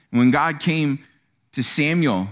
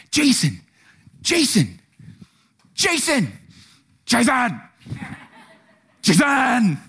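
calling a name higher, growing to a shout; God calling; 9 semitones higher than usual. Retold or imitated. God calling Jason again and again, rising to a shout.

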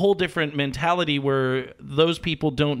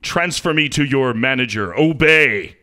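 commanding; 3 semitones lower, 5 dB louder than usual. Acted. Caller commands agent.

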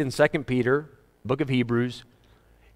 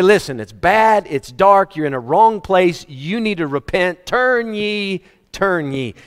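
forceful, higher-pitched call to repent; urgent warning; 4 semitones higher, slower than usual. Acted. Preacher warns a sinner in the pigpen, urgent and forceful. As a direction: punch out each short warning.

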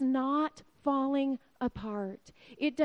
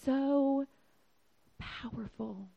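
calm God. Pretend. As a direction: sink to a gentle near-hush as a serene God. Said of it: "And God's thinking".

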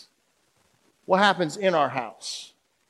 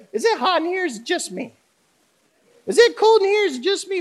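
high fussy mock mom; 12 semitones higher than usual. Pastor imitates mom fretting about the temperature, high mock voice. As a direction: squeak out mom's fretting questions. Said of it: "moms say things like this".

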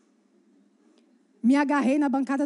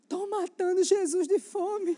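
slow, higher tearful wail; hammed-up weeping confession; mock crying; 4 semitones higher, slower than usual. Wife confessing she starves Jesus, mock crying. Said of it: "Começou a chorar e dizer".

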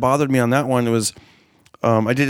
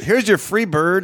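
cocky comeback; 8 semitones higher, slower than usual. Retold or imitated. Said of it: "flipping off the heckler".

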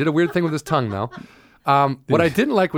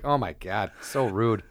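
low, soft aside; muted disapproval; 5 semitones lower, 8 dB quieter, slower than usual. Retold or imitated. Comic watching staff mock waitress, quietly appalled. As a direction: say it under your breath, appalled.

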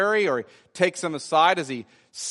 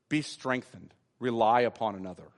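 soft passive; 7 semitones lower, 6 dB quieter than usual. Shown as a demonstration. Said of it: "You hear the difference between that?".

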